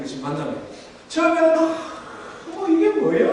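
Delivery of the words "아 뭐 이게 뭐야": very high, wondering exclamation; like seeing a marvel for the first time; amazed wonder. Acted. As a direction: squeal it in acted amazement. People amazed at new food.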